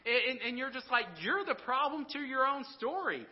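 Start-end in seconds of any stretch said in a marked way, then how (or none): 1.2-3.3 exasperated retort. Retold or imitated. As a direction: throw it back at them in disbelief. Preacher voicing his own exasperation.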